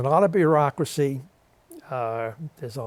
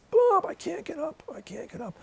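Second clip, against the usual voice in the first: high whispered plea fading to nearly nothing; helpless whisper. Retold or imitated. Fallen old veteran calling to Bob, faint whispered plea. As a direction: breathe it out weakly from the ground. Fallen Ray calls for help.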